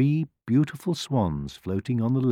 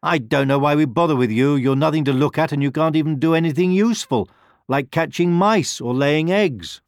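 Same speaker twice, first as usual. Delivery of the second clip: sneering cat; 7 semitones higher, 5 dB louder than usual. A narrator's reading. Cat jeers at duckling.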